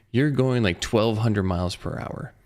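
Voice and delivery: slow, calm pilot voice; calm cool pilot voice. Retold or imitated. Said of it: "the calmest, coolest pilot voice".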